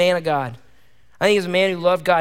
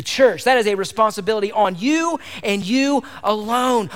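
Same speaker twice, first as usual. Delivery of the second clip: fiery preaching; 2 semitones higher than usual. Acted. Pastor challenging husbands in church, fired-up preaching. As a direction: preach it hard, calling men to lead. Preaching at full force to men.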